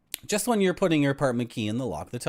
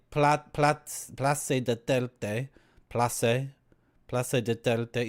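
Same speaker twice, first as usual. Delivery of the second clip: Italian-style pronunciation; much slower than usual. Shown as a demonstration. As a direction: Place de Telde slowly, Italian-sounding. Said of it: "I'm gonna say it like Italian".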